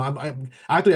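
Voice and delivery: tripping over words from excitement; stumbling, repeating the first word; stuttering. Real, not acted. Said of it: "I'm, I'm, I'm stuttering".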